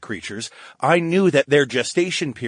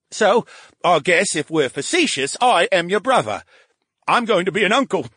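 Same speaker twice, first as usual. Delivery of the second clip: moved at becoming an uncle; sentimental brain; 4 semitones higher than usual. Acted.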